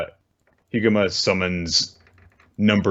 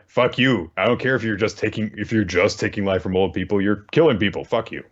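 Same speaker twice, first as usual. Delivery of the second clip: indignant hero telling someone off, lightly acted; a touch of heroic outrage, higher pitched; lightly voiced righteous hero; 3 semitones higher than usual. Good guy hero rebuking a life-stealer, mildly indignant. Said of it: "a good guy hero would say in this situation".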